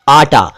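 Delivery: आटा said slowly and clearly, long आ; teacher spelling out आटा slowly for learners; slow clear word demo. Shown as a demonstration. Urdu teacher reading आटा slowly to students. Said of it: "देखिए, मैं जरा जल्दी-जल्दी बोलूंगा".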